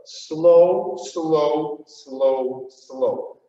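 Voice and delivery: even SLOWs, each held a beat; full-beat count. Shown as a demonstration. Dance teacher counting the class through, steady full beats. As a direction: count SLOW steadily, stepping down in pitch. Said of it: "Full beat".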